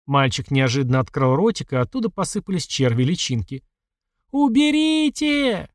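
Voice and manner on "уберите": long, very high, drawn-out scream; shrieking. A narrator's reading. Mother shrieking at her dead son, very high slow scream. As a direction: scream it in terror, stretched slowly. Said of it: "Света визжала так громко".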